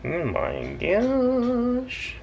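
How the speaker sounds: stretched out through a yawn. Real, not acted. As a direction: say it mid-yawn, drawn out. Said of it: "I can't stop yawning today".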